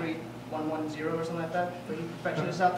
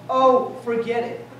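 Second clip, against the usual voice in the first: dismissive brush-off; 3 semitones higher, 8 dB louder, slower than usual. Retold or imitated. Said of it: "one thing that I hate that girls do".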